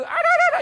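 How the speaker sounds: short, very high trilled cry; trilled ululation. Shown as a demonstration. Asking what the sound means, high demonstrated ululation. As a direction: demonstrate a loud joyful ululation. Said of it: "이게 무슨 뜻일까요?".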